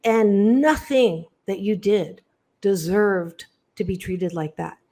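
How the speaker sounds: tender, unhurried reassurance to a hurt listener; loving reassurance. Real, not acted. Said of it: "lovingly say to you".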